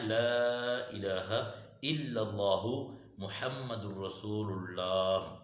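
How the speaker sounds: very slow "لا الہ الا اللہ", every long vowel stretched; "لا" held long, "رسول اللہ" drawn out as "rasulullaah"; correct kalima pronunciation. Shown as a demonstration. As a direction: model each word of "لا الہ الا اللہ" separately, "illallahu" in full. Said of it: "تلفظ کیا ہے".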